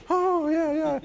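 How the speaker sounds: high, fading two-faced agreeing; Muttley sucking up. Retold or imitated. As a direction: fawn like a caught cartoon dog. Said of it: "he'd go".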